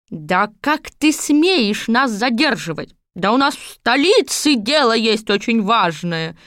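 scolding Baba Yaga, lightly voiced; a touch of a cross old witch; indignant old witch. (возмущённая старуха)

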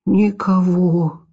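slow unvoiced whisper. A narrator's reading. Cat reports softly.

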